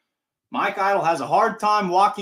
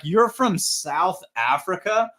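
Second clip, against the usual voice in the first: amazed; 5 semitones higher, slower than usual. Retold or imitated. Announcer amazed by fan.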